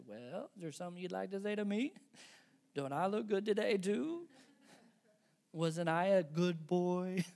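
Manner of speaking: 칭찬을 바라는 부모를 흉내 내듯; mock fishing for praise. Needy parent mocked.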